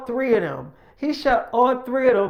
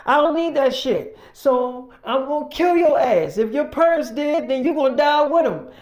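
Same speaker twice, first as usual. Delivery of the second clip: menacing rant; 4 semitones higher than usual. Retold or imitated. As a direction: lay down the law with menace. Mike threatening Joe.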